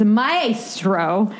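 "Maestro" said as the character says it; lightly imitated "Maestro"; imitated pronunciation. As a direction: mimic her way with "Maestro". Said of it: "I love the way she".

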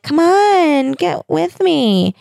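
high, drawn-out beckoning singsong; playful siren-like invitation; alluring calling. Acted. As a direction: call out slowly and high, coaxing him over. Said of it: "they're calling to him".

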